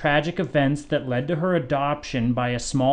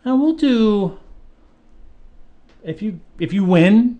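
grand announcement; 8 semitones higher, 4 dB louder than usual. Acted. Host builds up the prize.

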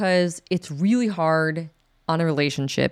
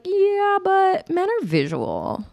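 mocking a self-objectifier; much slower than usual. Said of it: "they'll still be like".

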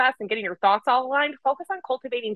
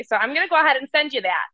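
fast and higher, mock-sweet; sarcastic universe; 6 semitones higher, faster than usual. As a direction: cheerfully deliver the bad news. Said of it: "that's what your frequency is telling me".

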